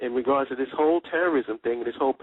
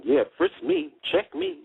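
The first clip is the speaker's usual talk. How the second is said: much higher-pitched mocking imitation; mock eager volunteer. Mocking news commentators who welcome being searched, mock eager. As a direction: put on a high, willing commentator's voice.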